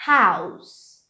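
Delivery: "house" ending in a hissed S, not Z; S sound at the end. Shown as a demonstration. Teacher showing students the final sound, "house" ending in S. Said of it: "é som de S".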